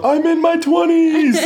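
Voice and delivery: hammed-up shout of his twenties; mock shout to the world. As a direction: proclaim it to the whole world. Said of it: "I would just shout to the world".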